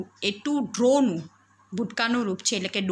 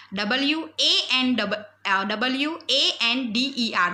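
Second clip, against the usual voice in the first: slow, higher-pitched letter-by-letter spelling; careful spelling; 3 semitones higher than usual. Shown as a demonstration. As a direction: spell it out slowly for children to note. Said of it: "બાળકો સ્પેલિંગમાં ખાસ ધ્યાન રાખજો". (ધ્યાનથી, ધીમે ધીમે spelling બોલો)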